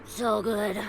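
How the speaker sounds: talking with food in mouth; mouth full. Real, not acted. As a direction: speak around a mouthful. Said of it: "don't talk with food in your mouth".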